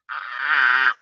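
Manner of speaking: low, held mock groan; low drawn-out "ah". Breeder imitating an awkward reaction, drawn-out low ah. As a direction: let out a long low "ah". Acting out her stunned reaction.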